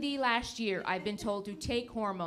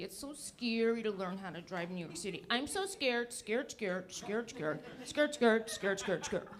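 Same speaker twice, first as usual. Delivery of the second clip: put-on whiny scared kid; 2 semitones lower, 7 dB quieter than usual. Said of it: "kids talking about how scary it is".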